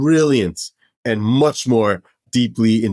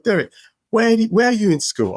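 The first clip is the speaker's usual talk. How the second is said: mock Dave Stewart; 11 semitones higher than usual. Dave teasing Derek about school in a high mock voice. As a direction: play the friend calling his bluff, pitched way up. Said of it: "And he's just like".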